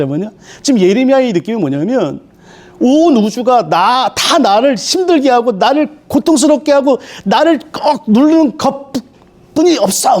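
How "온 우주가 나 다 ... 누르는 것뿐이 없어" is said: slow, drawn-out lament with weight on each blow; anguished complaint. Acted. Preacher voices Jeremiah feeling the universe press on him, drawn-out lament. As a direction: voice Jeremiah's crushed feeling, stretching the words. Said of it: "막 이런 표현이에요".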